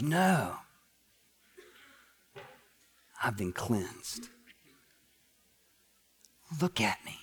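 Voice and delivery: low, soft husband after the outburst; hushed reassurance. Acted. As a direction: drop almost to a whisper, slowly. Cleansed husband calms screaming wife.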